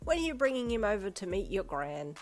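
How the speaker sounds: put-on high, loud, cheerful old lady; bright granny. A narrator's reading. Granny picking up the phone, bright and eager. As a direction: greet her like a beaming gran. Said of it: "she greeted brightly".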